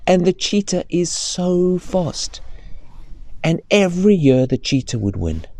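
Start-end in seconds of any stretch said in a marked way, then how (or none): 0.1-2.4 slow, hushed awe; storyteller whisper. Acted. Telling the child how fast the cheetah is, slow hushed whisper. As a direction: whisper it slowly like a secret.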